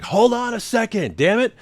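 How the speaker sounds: high-pitched retold holler without real volume; fake-yell in a strained high voice; mock exasperation. Husband retelling his answer to the pounding, mock exasperation.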